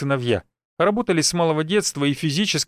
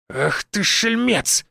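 scolding father; 6 semitones higher, much slower than usual. Acted. Father scolds thieving son.

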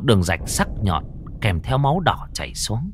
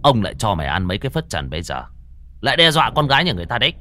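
stern scolding; faster than usual. Acted. Exorcist scolds the ghost.

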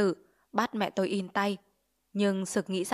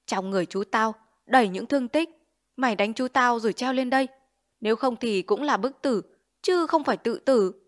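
sullen accusation; 3 semitones higher, 4 dB louder than usual. Acted. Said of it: "Nó hầm hầm".

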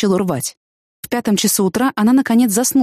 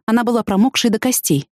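ordinary delivery

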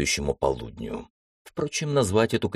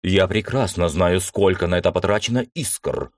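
irritated outburst. Acted. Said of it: "вспылил император".

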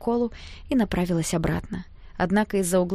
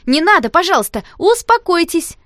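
panicked pleading; 10 semitones higher, 11 dB louder than usual. A narrator's reading. Girl begging fighting boys, panicked high plea. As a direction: beg them to stop, frantic. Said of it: "всполошилась Таня".

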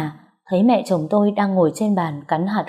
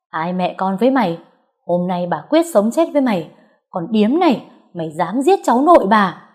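angry; 2 semitones higher than usual. Acted. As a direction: spit venom at the girl. Mother-in-law cursing the girl. (mẹ chồng chửi con Dương, giận dữ dồn lên)

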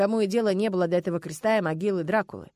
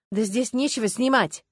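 разочарованно; 4 semitones higher, 5 dB louder than usual. Acted. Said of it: "разочарованно протянула Людмила".

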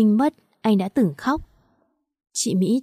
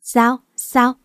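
slightly husky, altered voice; lightly voiced hoarse call; hoarse, thick voice; 2 semitones higher than usual. A narrator's reading. Husband calls out to his wife, slightly hoarse. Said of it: "giọng khàn đục".

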